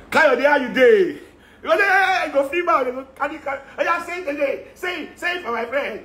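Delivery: high, laughing imitation of a white colleague speaking pidgin, British accent; mock foreigner's pidgin. Oyibo colleague greeting Kayode in pidgin, mock foreign accent. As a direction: lift the voice and ham up an Oyibo trying pidgin, laughing. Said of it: "hear your Oyibo colleague speak pidgin".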